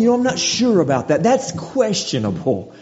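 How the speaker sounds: imitating someone unsure; hedging doubter. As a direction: shrug off the question with doubt. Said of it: "we're almost saying".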